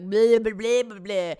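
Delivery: put-on loud, slurred drunken babble; mock a drunk girl's noisy blabber. Not drunk enough to be that girl, mock drunk babble. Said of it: "drunk enough to be a girl".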